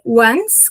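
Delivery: "once" with a strong "an"; strong "an" sound. Shown as a demonstration. Teacher fixing pronunciation of "once", strong "an" sound. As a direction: lean firmly on the "an" in "once", drawn out. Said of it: "com an bem forte".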